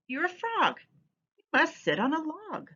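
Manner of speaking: high, insistent cat; bossy cat voice. Acted. Teacher voicing the cat to kids, high and insistent. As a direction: push the frog to obey.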